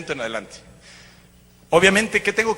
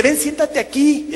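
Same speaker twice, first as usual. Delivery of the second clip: high, slow beckoning voice; voz de Nieves; 9 semitones higher, slower than usual. Retold or imitated. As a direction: imitate a woman calling him over, drawn out. Nieves lo invita a sentarse. (imitación aguda y lenta, invitando)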